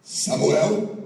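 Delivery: a loud rising call across the dark. Acted. God calling the sleeping boy Samuel, loud rising call. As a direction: call his name from afar.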